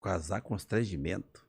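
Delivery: slow, low, rising disbelief at the word constrangimento; incredulous echo. Retold or imitated. Owner echoing the wanderer's fancy word in slow disbelief. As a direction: repeat it back as if you can't believe it. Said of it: "Eu falei pra ele assim".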